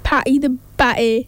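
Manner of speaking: jokey put-on Irish accent; mock-Irish accent for a nickname; attempted Irish accent. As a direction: try a playful Irish lilt. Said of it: "I can do an Irish accent".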